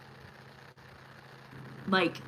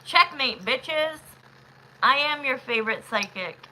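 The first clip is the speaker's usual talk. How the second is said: cocky gloat; 4 semitones higher, 3 dB louder than usual. Acted. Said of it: "This is when I say".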